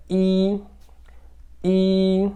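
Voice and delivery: "i" held long on a high, level pitch; high steady drawn-out "i"; first-tone "i". Shown as a demonstration. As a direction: sustain "i" high and even. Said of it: "Ele é o primeiro tom".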